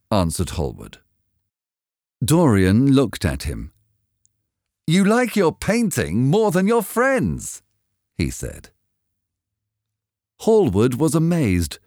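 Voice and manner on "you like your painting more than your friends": high-pitched, reproachful accusation; angry. A narrator's reading. Dorian rebuking the painter over his portrait, angry. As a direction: accuse a friend, pitched well up. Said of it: "Dorian seemed quite angry".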